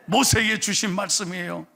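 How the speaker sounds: ordinary talk, nothing marked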